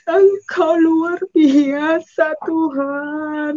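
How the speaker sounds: very drawn-out, imploring praise; retold tearful prayer. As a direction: stretch each word as if crying to God. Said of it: "Saya menangis". (doa meratap, sangat dipanjangkan)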